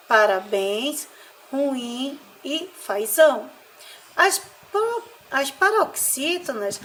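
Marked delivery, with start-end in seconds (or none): 0.1-3.5 "parabéns, ruim e fazão", slow, ends stressed; stress on last syllable. Shown as a demonstration. Teacher reading oxytone examples, slow final stress. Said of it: "se encontram na última sílaba".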